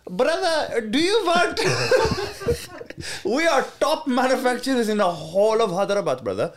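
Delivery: put-on South Asian accent. Imitating Pakistani manufacturer message.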